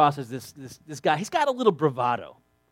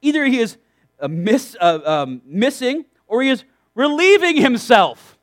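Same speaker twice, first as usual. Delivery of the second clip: mocking; 4 semitones higher, 3 dB louder than usual. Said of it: "Elisha mocked them".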